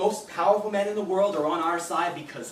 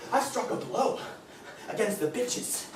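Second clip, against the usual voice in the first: giddy with cruel pride; gloating laugh; 2 semitones higher, 5 dB quieter than usual. Acted. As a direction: laugh through it, relishing. Laughing at victory.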